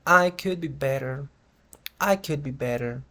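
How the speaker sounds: mildly downbeat answer; understated pessimism; slightly pessimistic. Shown as a demonstration. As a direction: say it with a touch of resignation. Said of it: "tengo una entonación un poco pesimista".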